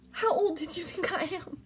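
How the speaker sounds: high, stunned question; aghast at the guess; incredulous. Real, not acted. Outraged at his age guess.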